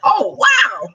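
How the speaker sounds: high shout of surprise; surprised. Retold or imitated. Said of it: "I was like".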